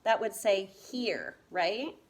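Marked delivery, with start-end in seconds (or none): 0.7-1.4 "hear" said with a long ee; sounded-out pronunciation. Shown as a demonstration. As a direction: say "hear" like "here". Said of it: "'cause if I covered that".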